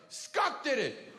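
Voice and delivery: slow, high mock telltale; tattling child. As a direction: imitate a kid blaming his brother. Child blames brother to mother.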